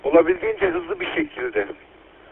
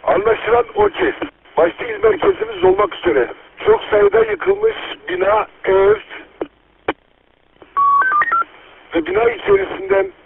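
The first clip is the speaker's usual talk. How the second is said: police radio. Real, not acted. Earthquake emergency radio traffic.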